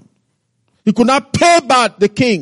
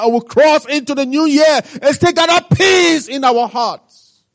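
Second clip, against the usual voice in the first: preaching shout; 4 semitones higher than usual. Real, not acted. Preacher rises to exhortation.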